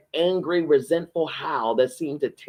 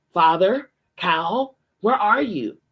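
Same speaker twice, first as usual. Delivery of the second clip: raised voice calling into the dark, higher; 5 semitones higher, slower than usual. Acted. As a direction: call for father and Cal across the lawn.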